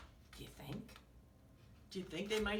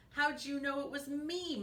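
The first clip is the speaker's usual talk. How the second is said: higher-pitched mock moan; moaning turkey; 7 semitones higher than usual. A narrator's reading. Turkey caught out by cow, higher mock moan. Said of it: "moaned Turkey".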